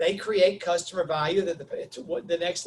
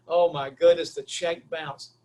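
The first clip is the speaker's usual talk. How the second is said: embarrassed dismay; 4 dB louder, slower than usual. Retold or imitated. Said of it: "I'm so embarrassed now".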